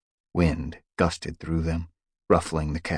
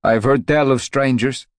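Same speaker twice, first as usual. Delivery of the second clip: put-on anxious young cat; 8 semitones higher, 10 dB louder than usual. Crag speaks.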